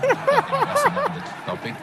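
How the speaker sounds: a real chuckle breaking into the line; laughing aside. Real, not acted. Panelist laughing at his own joke about being single, amused.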